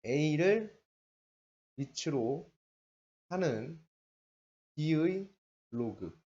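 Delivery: A를, 밑으로, 하는, B의, 로그, each set apart by a pause; "A를 밑으로 하는 B의 로그" read in separate, spaced-out chunks; word-by-word reading. Shown as a demonstration. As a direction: dictate "A를 밑으로 하는 B의 로그" with a break after every word. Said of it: "얘를 읽는 방법이".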